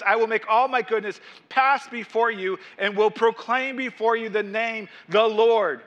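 emphatic proclamation of God's words; solemn scripture reading. Acted. Preacher reads God's promise to Moses, emphatic scripture reading. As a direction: proclaim it, landing hard on the last words.

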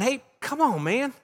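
lightly voiced buddy telling Job to snap out of it; blunt casual paraphrase. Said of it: "That's a nice way of saying".

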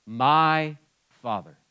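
slow, tender MY stressed; tender address. Shown as a demonstration. A son speaking to God, slow and tender. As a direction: say My Father slowly and tenderly, stressing my. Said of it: "you know what I get to say?".

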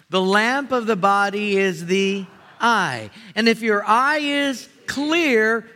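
slow, loud solemn reading; scripture reading. Acted. Pastor leads church reading Matthew aloud, slow and solemn. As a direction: read it out weighty and measured.

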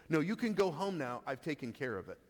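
firm assurance. Retold or imitated. Pastor voicing Jesus sending the official home, assured. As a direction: state it as already handled. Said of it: "That's the emphasis of this language here".

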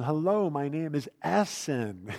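every syllable of Essen spelled out carefully; slow deliberate intro. Shown as a demonstration. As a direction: say your name slowly so it's caught. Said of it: "slow down and be very deliberate with my pronunciation".

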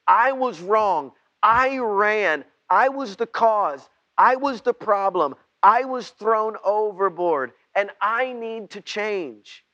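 loud, high, pleading admission of guilt; fervent confession. Acted. Preacher voicing the repentant prayer Jonah never prayed, loud and fervent. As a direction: cry it out like a broken man.

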